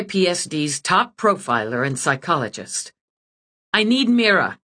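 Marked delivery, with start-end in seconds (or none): 3.7-4.6 snapping. Acted. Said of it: "she snapped at the dragon".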